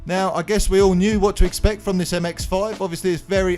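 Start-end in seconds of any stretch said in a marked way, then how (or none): 0.0-1.5 numb face after the dentist; numb mouth. Real, not acted. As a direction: talk with half your face numb. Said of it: "my voice sounds a little bit strange. I've just got out of the dentist and I can't feel half my face".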